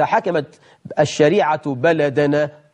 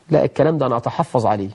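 quick, brushing-off objector; dismissive quote; 3 semitones lower, faster than usual. Retold or imitated. Mocking a skeptic who rejects the Prophet's words, quick and dismissive. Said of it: "تقول لي".

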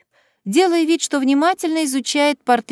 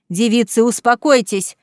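a touch louder, firm bark; barked order; 4 dB louder than usual. Acted. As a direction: bark at the girls to calm down. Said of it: "рявкнул Мэттисон".

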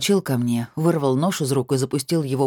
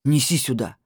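growled order. A narrator's reading. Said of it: "прорычал он".

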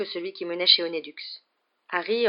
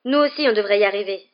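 out of breath; 4 semitones higher, 9 dB louder than usual. A narrator's reading. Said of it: "dit Harry le souffle court".

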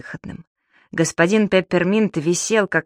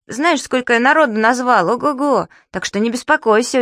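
reassuring; 6 semitones higher, 3 dB louder than usual. Acted. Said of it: "утешил его Субастик".

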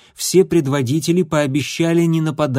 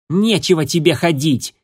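louder, bristling snap; a hostile, louder retort; snarled; 4 semitones higher, 3 dB louder than usual. Acted. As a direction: bite the words out with hostility. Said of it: "окрысился Дымок".

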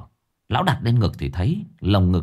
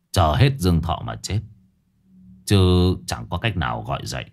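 put-on grim old sorcerer; 5 semitones lower than usual. Old sorcerer Lão Năm speaks.

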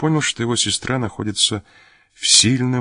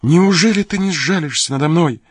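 мольба; 9 semitones higher, 4 dB louder than usual. Acted. Сестра умоляет брата.

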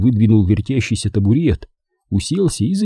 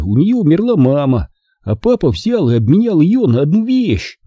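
put-on high-pitched boy, hurriedly reassuring his mother; animated young son; boy Charlie explaining; 8 semitones higher than usual. A narrator's reading. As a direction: explain it earnestly in a raised boyish voice.

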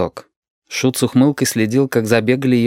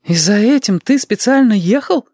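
higher, louder, amazed; gasp; 12 semitones higher, 4 dB louder than usual. Acted. Lidka gasps at Dima in disbelief, higher and louder. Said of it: "ахнула Лидка".

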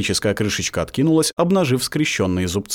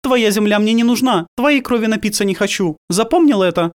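harsh; 11 semitones higher, 4 dB louder than usual. A narrator's reading. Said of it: "жёстко сказала Генева".

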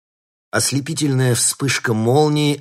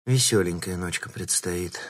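worried; 3 semitones lower, 4 dB quieter than usual. Acted. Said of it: "обеспокоенно произнесла".

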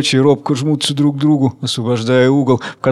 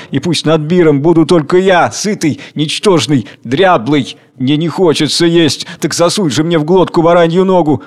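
rising wrath, a touch louder; growing anger; 3 semitones higher, 3 dB louder than usual. Acted. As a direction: let the anger build into commands. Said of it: "Загорается гневом". (нарастающий гнев)

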